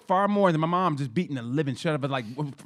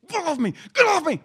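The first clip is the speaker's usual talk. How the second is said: much higher, louder mock cry to be let go; mom yelling; 13 semitones higher, 5 dB louder than usual. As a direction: shout at him to let go. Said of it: "My mom's like".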